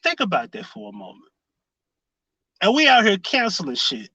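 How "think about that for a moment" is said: much softer, lower, letting it sink in; soft, pointed echo; quiet repeat. Real, not acted. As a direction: drop the voice low and say it again. Rhetorical repeat to audience.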